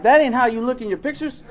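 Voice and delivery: high, loud, laughing disbelief; laughing quote. Retold or imitated. Telling a hookup she looks different, laughing.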